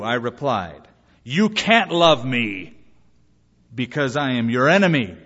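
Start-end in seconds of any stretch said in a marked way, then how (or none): 1.2-5.2 almost shouting. Retold or imitated. Enemy rejecting a pastor's love, almost shouting. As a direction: push each word out, imitating an angry enemy. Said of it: "He was almost shouting".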